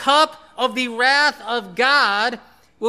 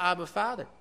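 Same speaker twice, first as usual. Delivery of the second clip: soft tender cry; 2 semitones lower, 7 dB quieter, faster than usual. Acted. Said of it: "We too can cry out".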